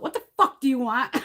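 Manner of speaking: mock yell out the window; retold yell. Homeowner yelling at religious callers from bedroom window, mock yell. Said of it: "I'll yell out".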